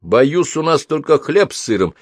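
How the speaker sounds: a touch dry and curt; dryly. A narrator's reading. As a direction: say it a little drily. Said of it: "суховато произнёс Майкл". (суховато)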